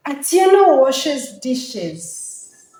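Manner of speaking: "Atieno washes dishes" declared slowly, falling at the end; loud, falling intonation. Shown as a demonstration. Teacher performs the first line to convince an audience, loud falling intonation. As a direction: open strongly on "Atieno", drawn out, falling through "washes dishes". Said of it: "So be loud, use falling intonation".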